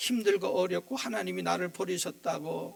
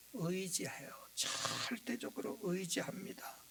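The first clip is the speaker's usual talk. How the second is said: hushed emphasis; 10 dB quieter, slower than usual. Real, not acted. Preacher stresses child's trust.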